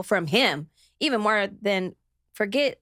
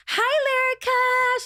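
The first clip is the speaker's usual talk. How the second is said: high, slow, sugary put-on voice; mock her fake friendly hello, pitched way up; fake sweet greeting; 13 semitones higher, 3 dB louder, slower than usual. Mimicking a rival's fake sweet hello, high and slow. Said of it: "She started off all high pitched with her fake self".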